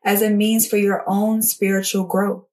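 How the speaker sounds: measured reading aloud with spaced pauses; devotional reading. Acted. Jesus pleading gently with a neglectful believer, measured read-aloud. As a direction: read each sentence out deliberately, letting it settle.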